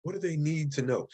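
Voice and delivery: gentle emphasis on the word "need"; stress on NEED. Real, not acted. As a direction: lean on "need", drawing it out a little. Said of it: "I'm emphasizing the word need".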